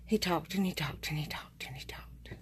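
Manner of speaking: unvoiced mock whisper, repeating it wearily; whispered aside. Complaining to viewers about her talkative boss, whispered. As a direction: breathe it out like a secret complaint.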